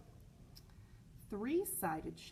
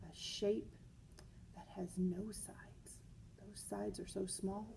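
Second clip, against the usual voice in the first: hushed, soft whispered aside; 6 dB quieter than usual. Real, not acted. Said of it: "aside about the tiny sides".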